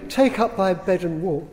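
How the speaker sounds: mock-imposing biblical command; looming command. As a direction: loom over them and order it. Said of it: "loom over me and say".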